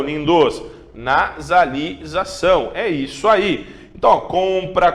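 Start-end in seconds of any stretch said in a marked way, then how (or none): 0.9-2.7 Nasalização stretched out again slowly; slow drawn word. Shown as a demonstration. Teacher repeating Nasalização slowly for students.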